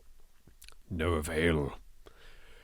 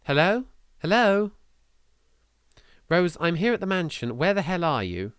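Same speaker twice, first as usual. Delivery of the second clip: calling over static; 8 semitones higher than usual. Acted. Phone call with static.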